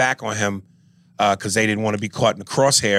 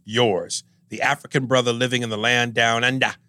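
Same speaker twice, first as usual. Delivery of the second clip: put-on African accent. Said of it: "please don't do the African accent".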